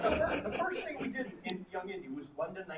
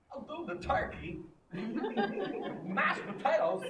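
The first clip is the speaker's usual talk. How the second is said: imitating Walken; 7 semitones higher, 5 dB louder than usual. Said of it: "He'd go".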